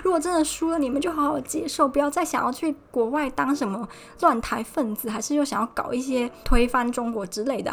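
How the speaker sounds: agitated lecture. Retold or imitated. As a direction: scold urgently, worked up, cooling toward the end. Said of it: "就很激动说".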